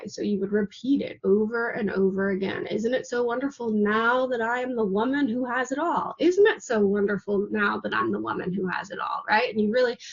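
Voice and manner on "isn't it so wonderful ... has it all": soft lullaby repetition. Shown as a demonstration. Coach showing students how to repeat the phrase, soft lullaby. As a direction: repeat it softly, over and over like a lullaby. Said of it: "repeat the phrase like a lullaby".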